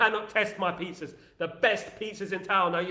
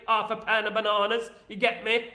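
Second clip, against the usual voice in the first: East End accent. Shown as a demonstration. Host showing off his own East End accent to listeners. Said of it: "I've got the East End accent".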